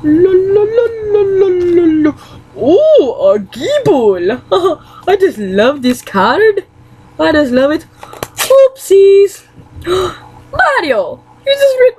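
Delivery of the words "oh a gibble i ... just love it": slow, laughing coo; giggly doting. Acted. Fan coos over the Gible card, slow and laughing.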